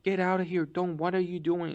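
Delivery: mock yell to chase kids off; retold yell. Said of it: "yelled at us".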